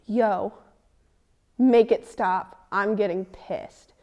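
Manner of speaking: slow, loud, fed-up demand to stop it; retold angry demand. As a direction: drag out each word like your patience is gone.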